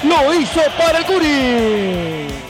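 frantic radio goal call; breakneck goal commentary. Acted. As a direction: scream the goal, rattle it off.

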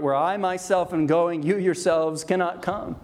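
"myself" and "yourselves" set out emphatically; emphatic pronouns. Shown as a demonstration. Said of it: "we could even render it".

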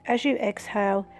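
calm hypnotic guiding voice; guided meditation. Acted. Reads meditation script.

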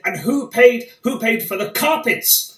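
hammed-up question to the PM; parliament question. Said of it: "I stood up and I said".

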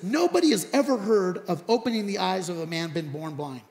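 emphatic, building to a loud finish; retold bold speech. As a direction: argue the case with rising force. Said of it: "so this guy then says this".

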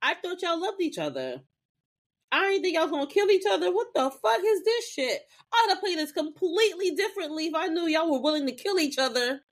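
high, squealing mock indignation; hammed-up high villain; Tara's outrage. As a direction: whine it like a cheated villain. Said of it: "the way this bitch was like".

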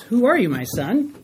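worried, doubting question lifting at the end; father's uneasy doubt; concerned. Shown as a demonstration. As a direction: ask it like a confused, uneasy father. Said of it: "Can you hear concern in Dad's voice".

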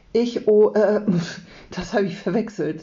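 flustered stumble into a hasty excuse; stammer, then cover up quickly. A narrator's reading. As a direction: caught out, hurried correction. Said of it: "sagt Jonathan schnell".

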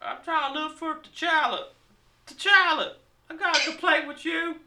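high, hammed-up African accent; mock African accent. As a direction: complain in a caricatured African accent. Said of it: "didn't know Africans sounded like that".

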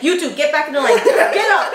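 mild mock yell, rising at the end; retold teacher's yell. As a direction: order kids back like a cross teacher. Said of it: "She even yelled at him too".

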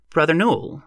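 high, pious form of address; preacher gently correcting a parishioner; solemn minister. A narrator's reading.

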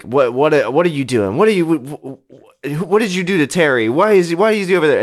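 rising frantic questions; panicky, rushing and stammering; panicked. Acted. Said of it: "he's like".

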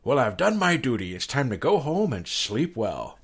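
a light, bad Sean Connery accent; weird accent. YouTube host signing off each episode, lightly imitated bad Connery accent. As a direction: imitate a YouTuber's shaky attempt at Connery, slowing at the end. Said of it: "always in it with a weird accent".

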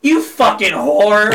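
drawn-out mock yell; retold scream. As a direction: imitate mom cursing at Mario, slowly. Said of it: "I'm just here screaming".

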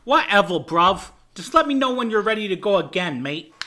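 dismissive fake Cockney; shitty Cockney accent. Rocker brushing off the producer, bad Cockney accent. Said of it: "such a shitty Cockney accent".

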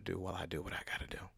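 soft unvoiced aside; whispering. Real, not acted. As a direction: whisper it to the listeners. Aside before a water break.

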